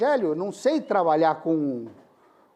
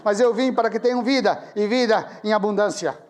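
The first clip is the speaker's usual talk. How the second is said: leitura solene em voz alta, bem projetada; leitura bíblica; 3 semitones higher than usual. Retold or imitated. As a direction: proclamar o versículo pausadamente. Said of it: "cheguei no versículo dez e disse". (lendo a Bíblia em voz alta, com solenidade)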